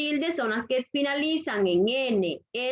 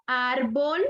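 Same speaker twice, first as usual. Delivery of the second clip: "árbol" with a long stressed "ár"; stress on penultimate syllable. Shown as a demonstration. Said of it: "En la penúltima sílaba".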